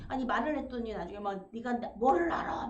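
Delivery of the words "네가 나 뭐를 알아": blunt and rude. Retold or imitated. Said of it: "기분 나쁘게 퉁명스럽게".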